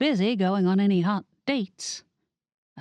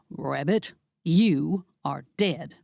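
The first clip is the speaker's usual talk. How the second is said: slow threat; slower than usual. Acted. Becky Ray threatens with knife.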